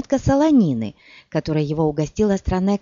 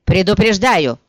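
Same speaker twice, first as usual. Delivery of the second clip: shrieking; 2 semitones higher, 6 dB louder than usual. Acted. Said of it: "взвизгнул Яре".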